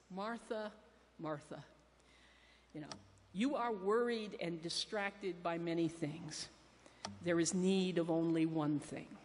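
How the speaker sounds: tenderly chiding, voice dropping; gentle rebuke. Retold or imitated. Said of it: "It matters how you put the emphasis on the words".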